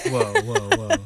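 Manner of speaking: high squealing whoa. Real, not acted. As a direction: squeal in mock shock. Reacting to pants joke.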